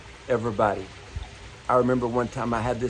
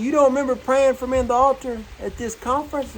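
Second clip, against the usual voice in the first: gently amazed he's forgotten, lightly acted; man's surprised question; 10 semitones higher than usual. Man reminds preacher of altar.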